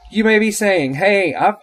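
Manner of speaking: high, animated pitch to listeners; excited. Real, not acted. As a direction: speak up high, all fired up. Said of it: "this excited about anything".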